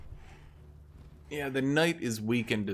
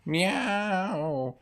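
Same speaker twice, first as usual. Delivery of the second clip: mock cat meows; 8 semitones higher, 4 dB louder, much slower than usual. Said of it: "just goes".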